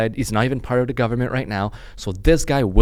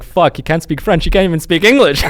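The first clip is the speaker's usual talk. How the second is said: high, loud, amused retold jeer; loud mock outrage tipping into laughter; cracking up; 7 semitones higher, 8 dB louder than usual. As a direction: quote the commenters while breaking up. Retelling comments that cracked them up.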